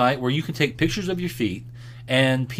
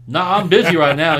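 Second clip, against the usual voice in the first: curt brush-off; 5 semitones higher, 7 dB louder than usual. Retold or imitated. Retold dad brushing customer off.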